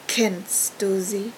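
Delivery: slow, stress on "du" with a rising end; odd emphasis. A narrator's reading. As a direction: lean on "du", drawn out and probing. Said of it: "Mit einer seltsam auffälligen Betonung".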